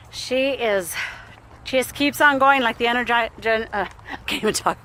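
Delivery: breathless from the trail walk; puffing between words; out of breath. Real, not acted. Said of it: "I'm out of breath".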